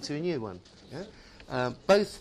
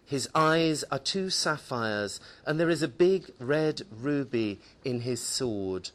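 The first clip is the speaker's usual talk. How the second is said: story narration. Acted. Teacher reading The Happy Prince aloud to trainees, gently paced. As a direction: read it like a graded reader to a class. Reads a graded reader aloud.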